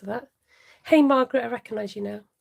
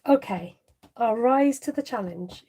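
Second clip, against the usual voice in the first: a hint of a mock Russian accent, lightly done; half-hearted Russian accent slipping toward Italian. Crafter retelling her reply to Ruth, mock Russian accent. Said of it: "I was in a really good Russian".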